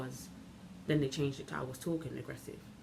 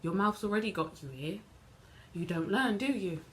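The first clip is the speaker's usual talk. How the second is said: mocking put-down, capped with a pointed question; lightly scornful telling-off; sarcastic; 3 semitones higher than usual. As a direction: needle them with mild sarcasm. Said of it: "sarcastically as she can".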